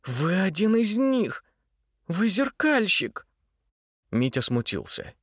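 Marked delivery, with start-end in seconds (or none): 0.0-3.3 accusing. Acted. Varya exposes him angrily.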